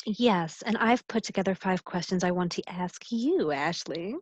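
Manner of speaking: lightly sinister wizard, sinking at the end; a hint of evil wizard, trailing down. Real, not acted. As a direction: slip into a faintly villainous wizard tone. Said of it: "Why did I just sound like an evil wizard?".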